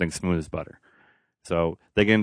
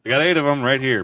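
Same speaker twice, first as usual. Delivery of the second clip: goofy bar guy; 7 semitones higher than usual. Pretend. Voicing the Doc Ock guy.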